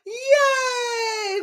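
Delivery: high excited yay; big happy whoop; cheering. Real, not acted. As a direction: cheer them on. Cheering the class.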